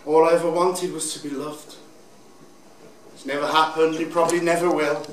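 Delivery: understated, downcast confession; depressed. Acted. Drag queen admits never being loved, depressed. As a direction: say it low-spirited, resigned to it. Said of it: "Listen to me all, depressed and down".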